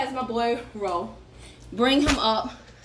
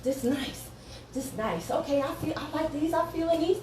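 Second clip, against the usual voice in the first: imitating a singer; 7 dB quieter than usual. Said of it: "he was like".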